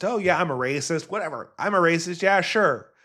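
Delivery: breezy sarcastic agreement; careless, playful concession; mock dismissive. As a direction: shrug off the accusation as you imitate. Acts out Nick shrugging off accusation.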